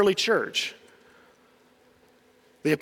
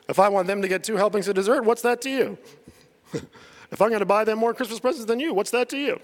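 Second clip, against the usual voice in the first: mock parent voice; 2 semitones higher, faster than usual. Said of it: "That's great parent reasoning right there".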